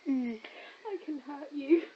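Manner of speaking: low mock threat. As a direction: play the villain, slow and low.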